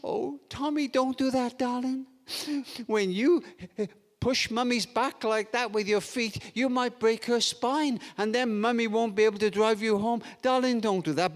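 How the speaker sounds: mock-tearful permissive mum; put-on weepy mum scolding feebly; tearful pleading. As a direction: plead as if crying a bit, pitched slightly up. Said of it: "crying a bit and speaking a bit like this".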